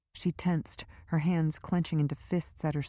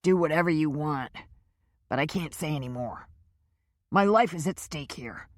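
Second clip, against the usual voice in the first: frightened captive. A narrator's reading. Powers refusing to talk.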